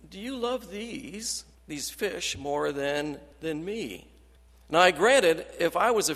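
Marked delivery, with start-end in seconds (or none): 0.1-4.1 pleading question. Retold or imitated. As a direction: ask it like a gentle plea, stretching every word. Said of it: "I think Jesus was saying".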